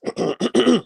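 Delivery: theatrical throat clearing. Shown as a demonstration. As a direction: clear the throat before a bit. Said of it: "let me do my best white man voice".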